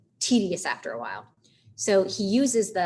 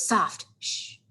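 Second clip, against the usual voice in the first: hushing himself. Acted. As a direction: settle yourself with a hush. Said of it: "Gotta quiet my mind".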